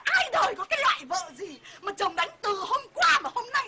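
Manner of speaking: high, hammed-up indignant wail; outraged husband. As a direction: rant in mock outrage as the husband. Wife plays outraged husband, ranting.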